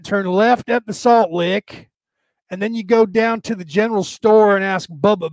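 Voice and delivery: put-on country bumpkin in a light Southern accent; hint of a Southern backwoods accent. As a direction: give directions in a folksy Southern accent. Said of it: "It's always some Southern accent".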